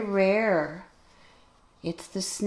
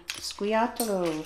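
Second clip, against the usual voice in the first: playful fake Italian on "squiatolo", slowed down; silly Italian-sounding word for squirrel; mock Italian; slower than usual. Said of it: "I just spoke Italian".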